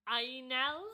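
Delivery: "Ainel" said as eye-nel, with a rise at the end; "Ainel", two syllables, eye then nel; Welsh pronunciation. Shown as a demonstration. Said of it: "but it said, like".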